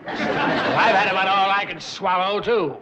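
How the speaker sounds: loud, fed-up retort; disgusted exasperation. Acted. Rival banker has had enough sentiment, exasperated. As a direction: cut in loudly, sick of it all.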